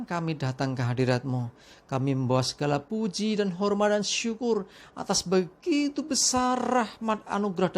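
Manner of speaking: earnest spoken prayer to God; heartfelt congregational prayer. Real, not acted. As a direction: pray fervently, addressing God directly. Opening prayer before sermon.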